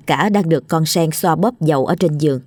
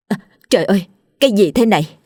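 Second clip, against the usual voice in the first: a higher startled cry; horrified gasp; 3 semitones higher, faster than usual. Acted. Mistress sees a head in her soup, startled horror. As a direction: recoil in disgust.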